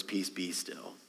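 hushed Jesus rebuking the storm; a soft, settled rebuke; calm, quiet command. Acted. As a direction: still the sea softly. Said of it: "three words".

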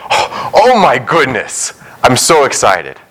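mock toddler excitement, stretching out the first words; excited toddler. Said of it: "like, two and a half".

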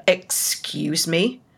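slow, questioning "excuse me"; retold puzzled reaction; mock disbelief. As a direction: draw it out as a baffled question. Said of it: "And I'm like".

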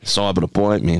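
broad Aussie vowels, tossed off; mock Australian wildlife-show catchphrase; Australian accent. Shown as a demonstration. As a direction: do a playful Australian animal wrangler. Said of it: "in your best Australian accent".

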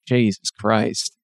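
ordinary talk, nothing marked

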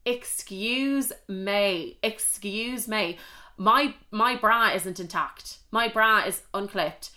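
slow, pointed, outraged; indignant retort. Retold or imitated. Girl scolding boyfriend with her bra undone, slow and indignant. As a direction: spell it out slowly, mock-indignant. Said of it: "I was like".

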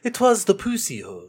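high mock old British; old British accent. Demonstrating old British for friends, old British accent. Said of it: "Old British".

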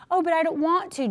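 mock whine of a child; lightly voiced sulky kid; whiny child. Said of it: "like little kids will do".

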